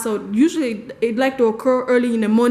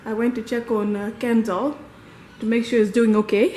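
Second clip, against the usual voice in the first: breathless after running the stairs; panting between words; out of breath. Real, not acted. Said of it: "I'm just out of breath".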